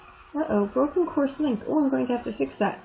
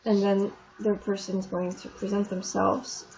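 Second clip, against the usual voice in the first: ordinary delivery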